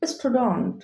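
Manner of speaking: "স্টুডেন্ট" as stu-dont, open vowel; correct pronunciation. Shown as a demonstration. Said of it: "correct pronunciation হবে". ("স্টুডেন্ট" শুদ্ধ স্টুডন্ট উচ্চারণ)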